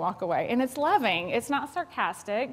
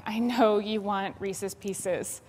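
empathetic; 2 semitones lower than usual. Shown as a demonstration. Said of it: "an empathetic statement would look something like".

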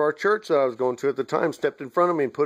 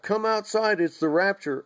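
retold scream; 6 semitones higher than usual. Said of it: "and I screamed".

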